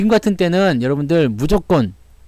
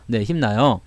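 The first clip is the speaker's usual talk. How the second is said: ordinary talk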